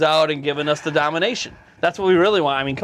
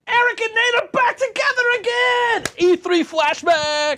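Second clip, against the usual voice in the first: high squeaky voice; 4 dB louder, slower than usual. Pretend. Excited high put-on voice.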